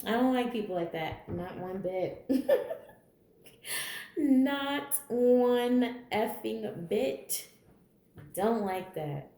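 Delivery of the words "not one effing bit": laughing through it, slow on effing bit; real amused laugh on the repeat. Real, not acted. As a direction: chuckle while you repeat it. Repeats the line, then laughs.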